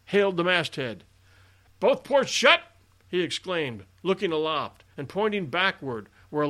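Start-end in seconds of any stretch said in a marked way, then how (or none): 1.8-2.6 sharp, high, loud hail; no very conciliating tone. A narrator's reading. Captain hailing the lookout at the masthead, unconciliating shout. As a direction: bellow a harsh rebuke up at the masthead. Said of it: "in no very conciliating tone".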